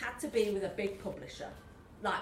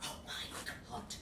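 gasped; 10 dB quieter than usual. Acted. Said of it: "I gasped".

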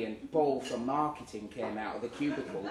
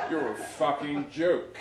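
sneering rival. Retold or imitated. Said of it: "he said".

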